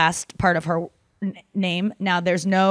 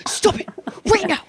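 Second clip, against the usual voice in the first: high, pleading mock voice; imitating Hala; 10 semitones higher than usual. Imagining friend Hala listening, high pleading imitation. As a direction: beg Nikki to stop in a squeaky put-on voice. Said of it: "she's going".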